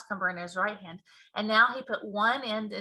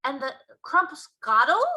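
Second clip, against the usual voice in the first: BFG giant voice; 5 semitones higher, 7 dB louder than usual. Acted. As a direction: boom out the giant's mangled grammar.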